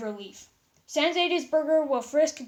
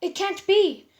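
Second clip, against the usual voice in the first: higher, louder stunned gasp; disbelief; 7 semitones higher, 7 dB louder, slower than usual. Acted. Pearl seeing the skeleton who sounds like Stephen, stunned disbelief. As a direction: say it as if you can't trust your eyes. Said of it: "said in disbelief".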